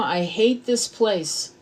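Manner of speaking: slow, dragged-out mocking complaint; drawn-out mock whine. Mocking viewers who whine about Earth, slow drawn-out whine. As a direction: stretch it out like a sulky viewer. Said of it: "I'm seeing".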